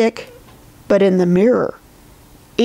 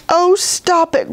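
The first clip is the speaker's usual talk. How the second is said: higher-pitched little grumble; grumbling; 9 semitones higher than usual. A narrator's reading. Little Bear is fed up with Edith crying, grumbling. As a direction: grumble it lightly in a high voice. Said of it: "grumbled Little Bear".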